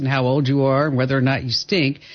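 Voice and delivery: upbeat radio ad read. Acted. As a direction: sell it like a sponsor spot. Host reads sponsor ad.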